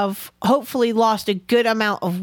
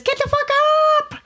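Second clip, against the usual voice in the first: high yelled wake-up call; faster than usual. Pretend. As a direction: bark it like a drill sergeant. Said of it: "calls my useless, lazy, sleepy ass and says".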